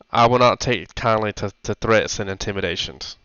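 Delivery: lightly voiced hobgoblin woman, cold warning; a hint of a stern girlish hobgoblin. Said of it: "Can you go back to a normal voice".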